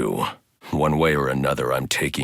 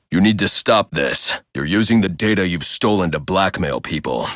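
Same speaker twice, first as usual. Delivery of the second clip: angry demand; 4 semitones higher, 3 dB louder than usual. Acted. Confronting the blackmailer.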